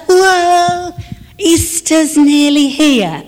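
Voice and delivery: high, excited exclamation, easing to a slow finish; excited whoa. Acted. Preacher acts out the Easter neon moment, high excited whoa. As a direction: burst out like spotting a neon sign.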